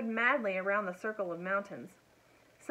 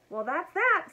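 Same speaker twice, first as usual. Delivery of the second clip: panting between words; out of breath; 9 semitones higher, 7 dB louder than usual. Acted. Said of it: "panting for breath".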